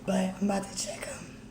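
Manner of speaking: real whisper, voice gone from nerves; hushed and frightened before checking results; scared whisper. Real, not acted. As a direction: barely breathe the words out, terrified. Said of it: "I lost my voice".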